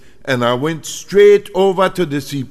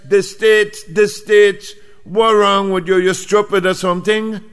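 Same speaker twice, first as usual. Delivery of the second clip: mock exasperated outburst; 5 semitones higher than usual. Buckra fed up with the travel clerk, mock exasperated.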